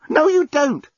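high-pitched, agitated contradiction; heated refusal. A narrator's reading. Journalist refuses to explain to Lucy, heated. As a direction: refuse hotly.

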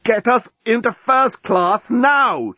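high, slow, strained order; choked demand. A narrator's reading. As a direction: force out a furious demand through a tight throat. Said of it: "choked the journalist".

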